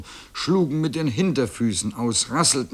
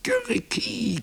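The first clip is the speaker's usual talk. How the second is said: very high cock-a-doodle-doo; rooster crow. A narrator's reading. Rooster joining the farmyard uproar, crowing. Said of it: "krähte der Hahn".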